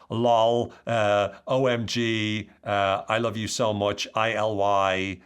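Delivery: loud, lightly put-on texter voice; mock texting voice. Shown as a demonstration. Speaker imitating text speak for the audience, mock texter voice. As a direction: play a teen spelling out texts. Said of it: "I don't know why I'm speaking like that".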